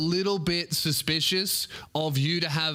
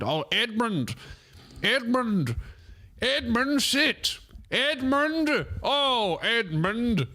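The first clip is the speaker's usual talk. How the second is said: English lady yelling at dog; 9 semitones higher, much slower than usual. Retold or imitated. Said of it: "I always hear her yelling at the dog".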